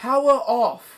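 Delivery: piercing, very high, loud British woman voice. Imitating how headphones announce shutting off, in a British lady voice. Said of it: "they say it like that. it's like a British lady".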